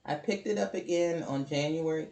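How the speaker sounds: talking through the hiccups; hiccuping between words. Real, not acted. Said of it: "I have the hiccups".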